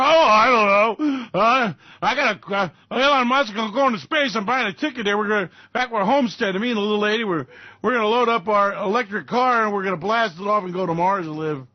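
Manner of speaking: a country dreamer boasting to his wife; hick husband. Acted.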